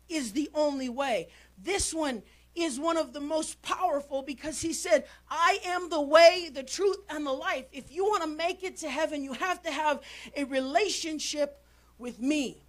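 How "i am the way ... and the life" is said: bold proclamation. Acted. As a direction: proclaim it with force. Proclaims Jesus' words forcefully.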